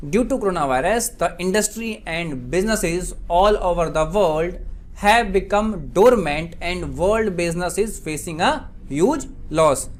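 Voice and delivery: very slow, spaced-out example reading; slow dictation. Shown as a demonstration. Teacher gives students an English translation, slow dictation. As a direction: read it out slowly, phrase by phrase. Repeats example sentence slowly.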